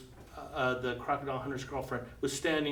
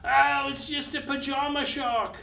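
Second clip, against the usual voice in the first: much higher, casual dismissive put-on voice; crocodile hunter voice; 11 semitones higher, 3 dB louder than usual. Crocodile hunter brushes off the shark, lightly voiced casual tone. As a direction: shrug it off like an old pro. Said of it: "this crocodile hunter goes".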